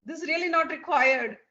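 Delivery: puzzled, protesting questions; perplexed. Acted. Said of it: "is like so perplexed".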